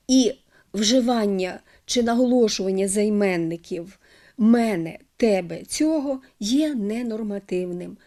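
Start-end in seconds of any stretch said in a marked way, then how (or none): 4.4-6.2 мене, тебе, цього stressed on the first syllable; misplaced stress. Shown as a demonstration. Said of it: "неправильним". (помилковий наголос: мЕне, тЕбе, цьОго)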